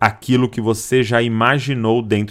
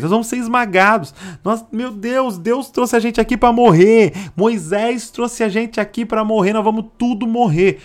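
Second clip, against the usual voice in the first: much higher, fast panicked wail; despairing whine; 9 semitones higher than usual. Retold or imitated. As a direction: whine that they will all die. Acting the despairing spies. (lamento desesperado em voz bem mais aguda)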